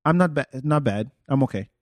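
imitated unexcited French reply; no excitement. A French person answering how they are, unexcited. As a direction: play down being okay, with no lift. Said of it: "There's no excitement in their voice".

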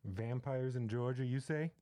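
slow, drawn-out dramatic wonder; mock intrigue. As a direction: ham up the curiosity.

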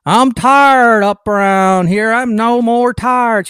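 hammed-up, slow imitation of a Black accent; fake Black accent. Host mocking Clinton addressing Black audiences, fake Black accent. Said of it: "with a fake black accent".

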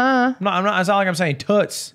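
high, loud protest; insist, voice rising; indignant. Real, not acted. Heated denial.

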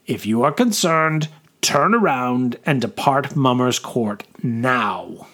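firm, measured proclamation; commanding officer. Acted. Officer addresses an angry crowd.

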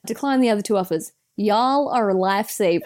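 put-on American accent; Australian doing a light American impression. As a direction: attempt an American reading voice. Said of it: "continue reading in my best American accent".

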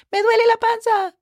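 put-on high, quick little-kid voice; complaining kid imitation. Teacher mimicking kids with a stomach ache, high child voice. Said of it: "you hear those kids, right, saying".

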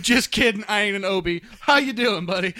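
high, chummy joking doctor; over-familiar doctor. Pretend. Imagined doctor kidding his patient, over-familiar. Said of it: "it's like".

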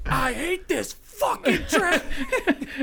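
laughing through a hammed-up angry outburst; a half-laughed imitation of dad cursing at traffic; mock angry dad. Narrator imitating her dad fed up with Boston traffic, laughing mock rage. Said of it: "And he just finally was like".

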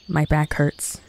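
normal talking voice

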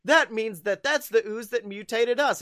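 high, loud mock shock; mock gasp of shock. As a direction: act out the turtles' big gasp. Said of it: "they're like, gasps".

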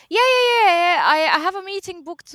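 high, loud insisting yeah; insistent prospect. Retold or imitated. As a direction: cut the caller off impatiently.

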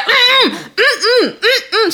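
high, hammed-up disapproving hum; mock a woman sniffing in disgust; mock prissy refusal. Girl on the train mocking the white lady, high and prissy. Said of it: "the white lady's like".

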